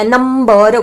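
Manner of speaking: नंबर stretched syllable by syllable; drawn-out pronunciation. Shown as a demonstration. Teacher giving another example word, drawn-out नंबर. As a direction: hold each part of नंबर long. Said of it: "इसका उच्चारण क्या होगा".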